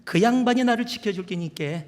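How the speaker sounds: high-pitched attempt at Gyeongsang accent; shaky-handed amateur Gyeongsang dialect, emphatic. Shown as a demonstration. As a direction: imitate Gyeongsang speech, off-target. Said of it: "이거, 이 마-, 깨는 아닌데".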